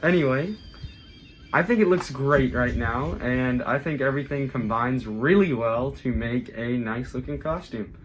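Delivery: muffled through a mask. Real, not acted. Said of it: "Sorry if my voice is a little muffled".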